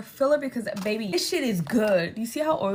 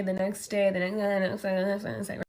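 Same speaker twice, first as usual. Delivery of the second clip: 1 rattled-off repetition; 2 semitones lower than usual. Real, not acted. Rattles off repeated days.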